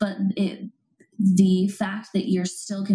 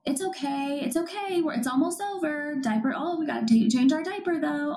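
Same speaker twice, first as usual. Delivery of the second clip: put-on hushing a crying baby; 8 semitones higher than usual. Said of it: "mom or dad is just saying".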